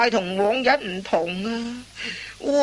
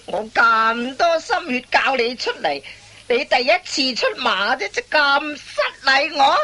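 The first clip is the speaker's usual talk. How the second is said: scolding rising; 3 semitones higher than usual. Acted. Master scolding apprentice.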